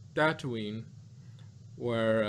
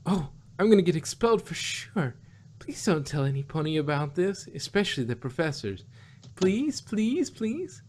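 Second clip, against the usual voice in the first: panicked pleading; 4 semitones higher than usual. Acted. Voicing panicked pleading pony.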